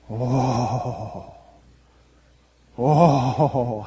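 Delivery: long low "oh" of dismay; drawn-out, breath-heavy "oh"; dismayed groan. Acted. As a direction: groan at the galling news. Reacting to galling repair news.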